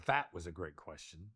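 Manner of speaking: low grounded praise; low take. Shown as a demonstration. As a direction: drop the pitch, lean on that. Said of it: "Or I could say".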